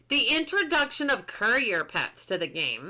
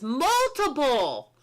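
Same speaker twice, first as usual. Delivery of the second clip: excited; slower than usual. Real, not acted. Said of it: "I'm so excited about that".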